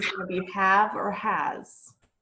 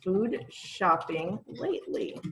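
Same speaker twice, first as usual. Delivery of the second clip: slow; slower than usual. Shown as a demonstration. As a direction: spell the question out slowly for learners. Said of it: "And then we just finished the sentence".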